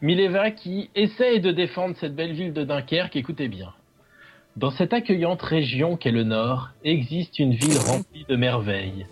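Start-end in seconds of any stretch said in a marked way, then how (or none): 4.6-9.0 lightly declaimed poem; hammy stage actor. Acted. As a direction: read it like a mock-solemn poet. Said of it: "je vais le faire à leur place".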